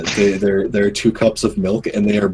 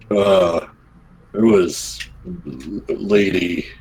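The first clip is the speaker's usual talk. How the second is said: hesitant; slower than usual. Acted. Guard warily answering the boss.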